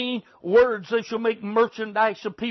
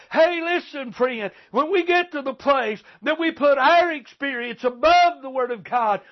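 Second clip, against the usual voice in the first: preaching shout; 3 semitones higher than usual. Real, not acted. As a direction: lift the voice and shout the warning.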